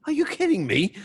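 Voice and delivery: high, loud Scottish "Are you kidding me?"; Scottish accent impression. Scottish pundit scoffs at the idea of rooting for England, in a Scottish accent. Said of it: "And Stevie Nichol's like".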